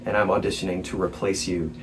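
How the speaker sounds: soft, sheepish retold confession; awkward mumbled aside. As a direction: act out cringing under your breath. Acts out awkward meeting with friend.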